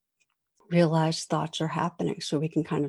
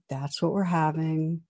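steady, a touch softer; calm mom; 4 dB quieter than usual. Retold or imitated. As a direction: keep it level and patient. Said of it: "She stayed calm".

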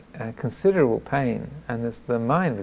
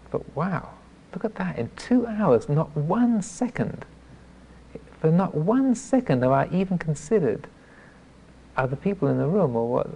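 higher, hushed wow growing emphatic; startled realization; 6 semitones higher than usual. Retold or imitated. Meditator looking back on two self-absorbed hours, startled. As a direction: marvel at yourself, pitched up. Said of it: "So that was startling".

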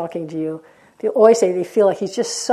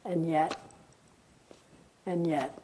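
slow poem reading; 3 semitones lower, slower than usual. Acted. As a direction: read it slowly and let it die away. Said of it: "It said".

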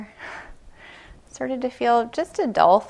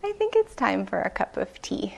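softer, gentle, kindly offer; 6 dB quieter than usual. Retold or imitated. Temple head gently calling the bleeding meditator to rest, softly kind. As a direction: ease him down tenderly. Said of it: "very kindly, very gently said".

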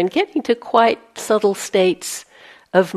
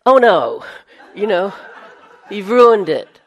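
laughing mock dismay; 2 semitones higher, 8 dB louder than usual. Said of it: "And then".

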